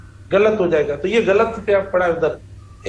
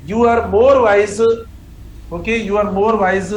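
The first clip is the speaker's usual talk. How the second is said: "more" leaned on in a very slow "you are more wise"; stress on more; much slower than usual. Shown as a demonstration. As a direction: slowly dictate the corrected form, weighting "more". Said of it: "तो आप देखो". ("more" पर ज़ोर देकर धीमे से)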